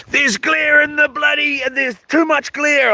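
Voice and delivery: high, whiny parody of a fussy doctor; hammed-up fussy doctor; mock fussy doctor. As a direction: mimic his complaint in a high whine. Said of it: "he's like".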